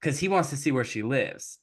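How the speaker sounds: usual speaking voice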